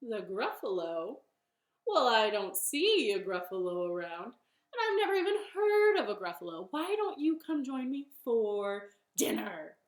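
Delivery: lightly voiced doubting owl; owl character. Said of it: "And the owl said".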